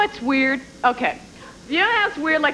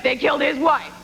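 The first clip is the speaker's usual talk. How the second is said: movie trailer voice. Retold or imitated. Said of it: "The copy on the poster, just like".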